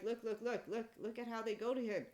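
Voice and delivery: urgent, loud "look at this"; excited pointing out. Retold or imitated. Retelling how people flocked to the shaman, excited and loud.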